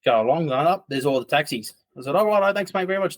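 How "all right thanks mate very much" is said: cheery thanks. Retold or imitated. Thanking the driver, voice raised.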